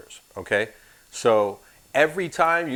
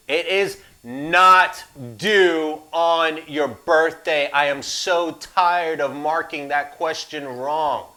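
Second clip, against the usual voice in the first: slow, louder, exasperated correction; irritated sarcasm; 3 semitones higher, 4 dB louder, slower than usual. Real, not acted. Instructor fed up with students missing this question, slow sarcastic. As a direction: drag it out like you've said it a hundred times. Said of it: "Do you hear the sarcasm being delivered".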